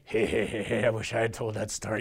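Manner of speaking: low goofy dad voice; chuckling dad. Acted. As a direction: drop down low for a dopey dad's heh-heh. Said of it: "Dads are kinda like".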